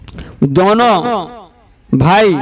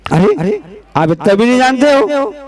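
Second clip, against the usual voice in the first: mildly indignant, pitch lifting in the questions; affronted disbelief. Acted. Proud scholar answers a question about his village, mildly affronted. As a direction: play a proud man mildly put out.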